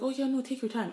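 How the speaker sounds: high, breezy mock-nice reassurance; imitating sweet niceness. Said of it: "she sounds so nice".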